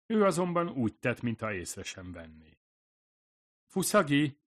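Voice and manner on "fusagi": high, tender call of a name; gentle, as to children. A narrator's reading. Nurse addressing Fusagi as one would a child, gently. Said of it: "gyöngéden, ahogyan gyerekekkel szokás beszélni".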